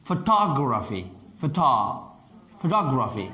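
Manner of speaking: "Photography" with the weight on "tog"; stress on -tog-. Shown as a demonstration. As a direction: break off "Photo-" and then lean on the third syllable. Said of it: "استرس اینجاست".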